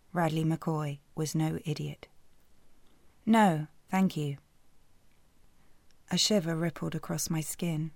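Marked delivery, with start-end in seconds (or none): 3.2-4.4 slow, louder, firm refusal; cold brush-off. Acted. Woman refusing McCoy's drink, slow and cold. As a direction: shut him down slowly and firmly.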